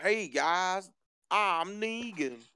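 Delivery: Southern accent laid on thick, exaggerated. Joking that a character talks like this, in a Negan voice. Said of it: "I didn't know Negan talks like this".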